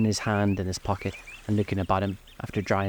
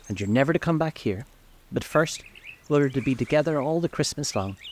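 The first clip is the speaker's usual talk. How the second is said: put-on high, eager little girl voice; gleeful child; 6 semitones higher than usual. A narrator's reading. Little sister planning Christmas with her brother, gleeful. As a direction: pour out the plans with raised, happy pitch. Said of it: "brimful of glee".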